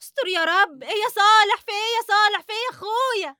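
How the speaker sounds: high alarmed questions. Acted. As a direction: rush in startled and worried. Wife woken, alarmed.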